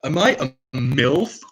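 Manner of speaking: high, drawn-out mock cougar voice; mock predatory woman. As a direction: ham up a woman asking what she is, slow and high. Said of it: "It's like".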